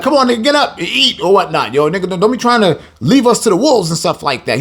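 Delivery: passive aggressive. Retold or imitated. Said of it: "he's being passive aggressive".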